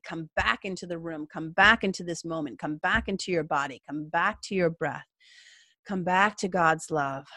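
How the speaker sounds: soft, measured guiding phrases; guided meditation. Acted. Coaching anxious viewers back to the present, soft and measured. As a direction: gently call the listener back to the moment.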